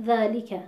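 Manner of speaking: ذَلِکَ with dhal, a clear kasra on لام, and final kaf; 1 model pronunciation. Shown as a demonstration.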